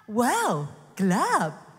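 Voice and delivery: loud, stunned wow at the dark; mock God gasping at the darkness; mock awed wow. Preacher mocking God as startled by darkness. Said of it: "apa yang Tuhan katakan".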